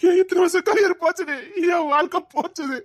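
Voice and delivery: wailing, distraught lament; anguished outcry. Acted. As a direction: cry out that his career is gone. He cries out his ruined career.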